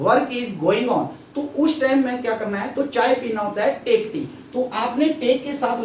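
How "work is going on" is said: very slow, stretched words; slow explanation. Shown as a demonstration. Teacher explaining ongoing action to pupils, very slow. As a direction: draw the phrase out so it sinks in.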